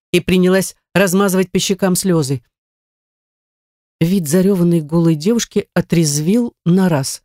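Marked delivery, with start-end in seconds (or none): none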